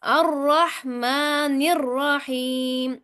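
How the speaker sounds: अर्रहमानिर्रहीम chanted slowly with a doubled, heavy र; slow Quran recitation. Shown as a demonstration. Teacher models the verse for students to repeat. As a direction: hold the vowels and hit the shadda. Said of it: "दोहराएं, सुनाएं".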